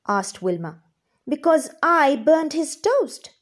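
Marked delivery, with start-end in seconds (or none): 1.3-3.3 gnome voice. Acted. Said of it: "said the gnome".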